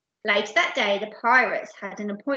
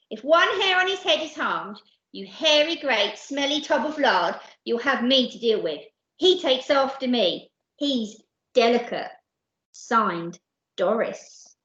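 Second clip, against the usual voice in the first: fed-up, emphatic scolding; Doris, scolding wife; 3 semitones higher, 3 dB louder than usual. Acted. Wife's note to her pirate husband, emphatic scolding. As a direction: read it as a threatening telling-off.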